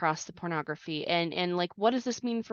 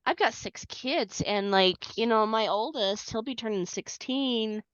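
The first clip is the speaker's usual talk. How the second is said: teary-eyed; 3 semitones higher than usual. Real, not acted. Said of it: "over here getting teary-eyed and".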